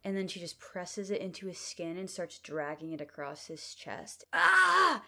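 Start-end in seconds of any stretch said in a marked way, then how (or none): 4.3-5.0 sharp, high, loud cry of pain; pained scream. Acted. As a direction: cry out as the blade cuts. Adam cut with knife.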